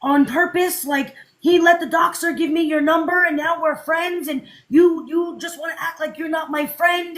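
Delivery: mock fan outburst. Fan claiming God sent the number, rising to a shout. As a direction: fan insisting fate made them friends. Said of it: "And then it's like".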